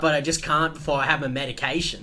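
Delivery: a lightly voiced old man citing his medication; old man excusing. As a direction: explain it like an old regular. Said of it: "He's like".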